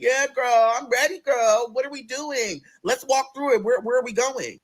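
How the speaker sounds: high, chirpy agreement; eager. Retold or imitated. New server answering Bernadette, chirpy and eager. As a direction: sound ready and bubbly.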